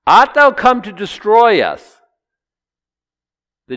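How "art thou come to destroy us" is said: loud, high, alarmed demon challenge; unclean spirit. Acted. Demon challenging Jesus, loud and high. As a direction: demand it like a threatened spirit. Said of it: "unclean spirit is using his vocal cords to say".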